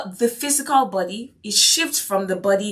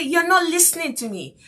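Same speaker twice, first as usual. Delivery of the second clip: mock-upset teen, pitched higher; 8 semitones higher than usual. Pupil protests to the teacher, mock-upset and higher. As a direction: imitate a cross teenager protesting. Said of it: "they would get upset and angry and say".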